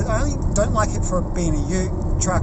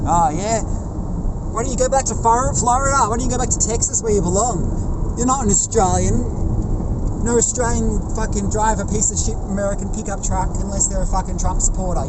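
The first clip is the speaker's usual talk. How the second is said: angry outburst at driver; 6 semitones higher than usual. Real, not acted. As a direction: tell the ute driver off from behind the wheel. Yelling at a passing pickup driver.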